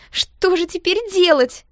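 high, loud, slow despairing wail; distressed. A narrator's reading. Girl with ruined dress, high despairing wail. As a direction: near tears, lost.

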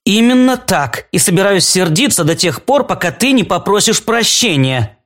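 cross and insistent, pitched high. Acted. Alice demands an apology from Claude, cross. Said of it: "Ты сердишься?".

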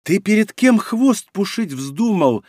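slow, high sinister menace; dark lord. A narrator's reading. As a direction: lean in and threaten slowly. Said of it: "очень зловещим голосом". (очень зловещий голос, медленно)

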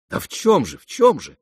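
bewildered questioning. A narrator's reading. The prince interrupts Keller, high and bewildered. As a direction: break in, climbing on the repeat. Prince cuts into the pleading, puzzled.

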